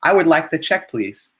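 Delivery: polite request. Shown as a demonstration. Teacher shows students a relaxed polite request. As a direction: ask gently, no pressure. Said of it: "relaxing way to ask for the bill".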